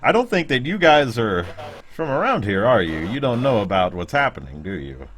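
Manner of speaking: lightly voiced wary local; a touch of suspicion toward outsiders; mildly guarded stranger questioning the party; campfire stranger.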